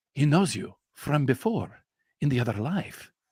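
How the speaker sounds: very serious tone. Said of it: "suddenly gets very serious and he goes".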